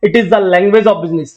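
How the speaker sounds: very slow, each word set apart; slow dictation. Shown as a demonstration. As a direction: spell it out slowly for notes. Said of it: "शब्द यही लिखा होगा".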